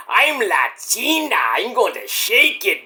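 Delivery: slow, high put-on Latina voice; hammed-up sultry Latina impression; playful Latina tease, drawn out; mock Latina. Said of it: "And Lola's like".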